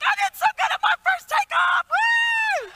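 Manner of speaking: nervous flyer cheering her own takeoff, thrilled; thrilled squeal. Retold or imitated. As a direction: shriek it like a proud first-time flyer. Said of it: "and she's like".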